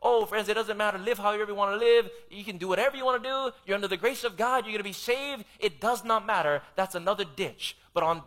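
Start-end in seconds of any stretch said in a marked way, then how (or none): 0.0-6.6 lightly voiced breezy false preacher, fast; a preacher parodying cheap-grace teaching; mocking false teacher. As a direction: mimic a careless easygoing preacher. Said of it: "opposite extreme in the Christian world".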